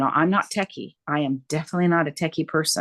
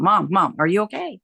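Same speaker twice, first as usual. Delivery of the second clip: louder, urgent calling of Mom; worried calling; 2 semitones higher, 4 dB louder than usual. Retold or imitated. To her mom on the phone, urgent worried calling. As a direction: call out to her frightened mother.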